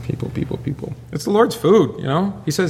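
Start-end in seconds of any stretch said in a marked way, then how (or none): 0.0-0.9 exasperated whisper. Real, not acted. Exasperated sigh at congregation.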